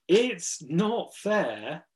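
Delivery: very slow, drawn-out "It's not fair", rising at the end; joyful amazement. Acted. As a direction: stretch each word in understated wonder. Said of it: "but in a completely different way".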